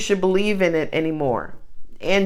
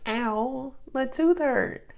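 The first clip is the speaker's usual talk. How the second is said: higher, whiny lion in pain begging for help; lightly higher pained animal voice; hurting lion; 6 semitones higher than usual. Retold or imitated. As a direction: play a wounded king of the jungle pleading.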